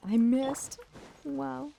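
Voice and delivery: loud startled cry; surprised. Real, not acted. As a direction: blurt out the miss. Misses an attack.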